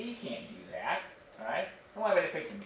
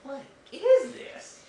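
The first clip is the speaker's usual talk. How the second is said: slow, much higher, louder cry of disgust; disgusted disbelief; 13 semitones higher, 8 dB louder, much slower than usual. Retold or imitated. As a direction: react to a revolting sip. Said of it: "And you're like".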